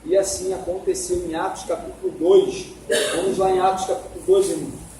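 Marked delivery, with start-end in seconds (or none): none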